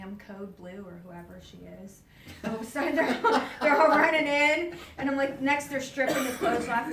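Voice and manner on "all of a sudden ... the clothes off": real laughter, higher and louder; laughing through words. Real, not acted. Telling the listener about the rush of doctors, laughing. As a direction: laugh as you tell it, the words breaking up.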